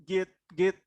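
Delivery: "give" mispronounced as "get", ending in a stop; wrong GIVE. Shown as a demonstration. Teacher showing a second mistake, "get" for "give". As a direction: close the word on a stop, "get".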